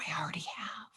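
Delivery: breathy whisper close in the ear. Pretend. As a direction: whisper it like a secret in someone's ear. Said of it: "have them whisper in your ear and go".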